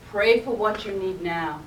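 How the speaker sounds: steady, strong, unhurried inner voice; a lightly voiced calm inner voice; calm assured voice. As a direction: speak it like a sure, calm guide. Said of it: "strong, calm, assured voice".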